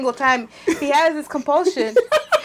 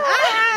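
mock yell; 10 semitones higher than usual. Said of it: "I just said".

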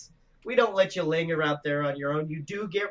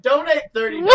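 laughing through it; 8 semitones higher, 9 dB louder, faster than usual. Real, not acted. Cracking up mid pitch.

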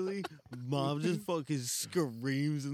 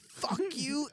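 mom cursing; 10 semitones higher than usual. Retold or imitated.

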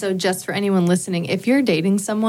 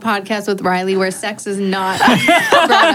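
laughing; 3 dB louder than usual. Real, not acted. Teasing laugh about friend.

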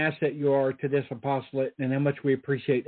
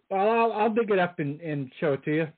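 with hiccups. Real, not acted. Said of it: "Sorry, folks, I got the hiccups".

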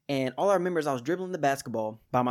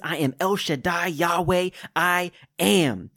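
building proclamation; 2 semitones higher, 4 dB louder than usual. Acted. Preacher voicing God to the congregation, building to a loud proclamation. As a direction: proclaim each I am bigger than the last. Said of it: "God says".

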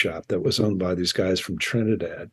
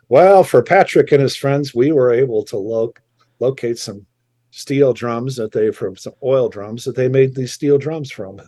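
condescending; 2 semitones higher, 6 dB louder than usual. Retold or imitated. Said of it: "it was so condescending".

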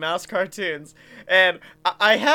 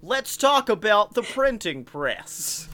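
fake American accent. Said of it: "he uses his fake American accent".

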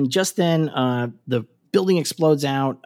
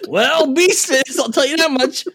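high, loud, drawn-out mock insinuation; exaggerated, high-pitched knowing tease; unsubtle innuendo; 12 semitones higher, 4 dB louder than usual. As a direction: ham up the suggestive hint. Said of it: "she's not subtle at all".

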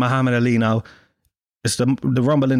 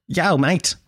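higher-pitched hammed-up Australian accent; 5 semitones higher than usual. Australian girl hailing an Irishman on a boat, mock Australian accent. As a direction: put on a cartoon Aussie greeting. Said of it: "This is my Australian accent".

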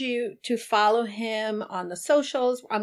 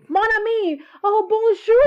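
higher, louder put-on French greeting; mock French; 11 semitones higher, 7 dB louder than usual. Host greeting her guest in playful French. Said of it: "Someone teach me French".

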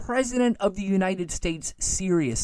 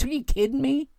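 incredulous; 8 semitones higher than usual. Real, not acted. Heated rant peaks in disbelief.

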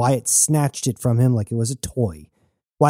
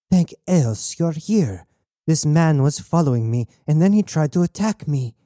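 higher-pitched plea of a supposed victim; feigned distressed relief; 5 semitones higher than usual. Acted. Captor lies to the newcomer that she was attacked, distressed. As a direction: act rescued and wronged.

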